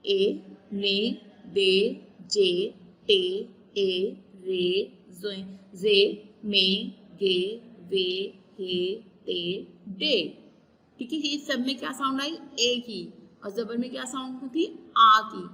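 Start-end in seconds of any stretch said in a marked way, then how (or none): 0.0-10.2 ए, ने, दे said alone, slowly and spaced; just the ए syllables, slow drill; syllables without spelling. Shown as a demonstration. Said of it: "अब इसको back and हिज्जों में पढ़ते हैं". (सिर्फ़ ए वाली आवाज़ें, धीरे धीरे)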